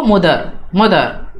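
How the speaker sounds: मदर with the final r dropped; foreigners' pronunciation. Shown as a demonstration. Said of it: "जो foreigner हो गए उनको pronounce".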